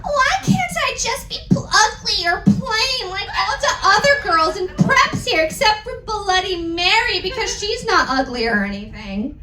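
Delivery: put-on girly whine. Heroine whining to Draco.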